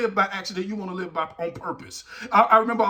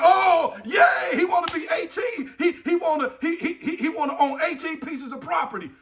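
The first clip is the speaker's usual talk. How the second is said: forced cheer; 6 semitones higher than usual. Acted. Teacher cheering a second grader's answer, hammed-up excitement. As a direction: spin the odd answer into celebration.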